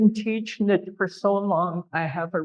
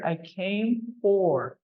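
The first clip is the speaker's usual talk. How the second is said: slow gloss; 4 dB quieter, slower than usual. Shown as a demonstration. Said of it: "double translations".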